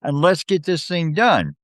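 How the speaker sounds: a player faking Sambalat's voice, not convincingly; bad Sambalat impression. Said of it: "you sound nothing like Sambalat".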